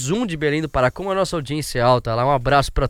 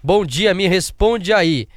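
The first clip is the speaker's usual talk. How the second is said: ordinary talk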